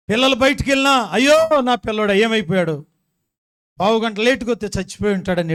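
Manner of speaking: high, loud imitation of fretting; mock panic. Mother fretting when children go out, mock panicked cry.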